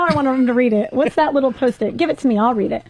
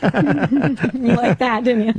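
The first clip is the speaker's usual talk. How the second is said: laughing; much slower than usual. Real, not acted. Teasing while laughing.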